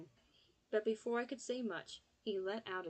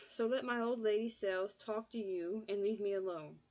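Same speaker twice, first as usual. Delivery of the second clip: snapped; 4 dB louder than usual. Acted. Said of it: "he snapped".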